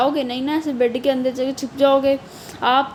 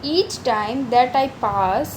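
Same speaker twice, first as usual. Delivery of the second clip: slow poem reading; much slower than usual. Acted. Reads poem line.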